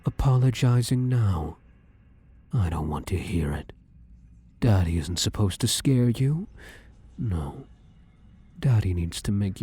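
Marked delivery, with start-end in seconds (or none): 2.5-3.7 hushed, dismissive whisper; cold whisper. Acted. Shadow rejecting the victim's apology, cold whisper.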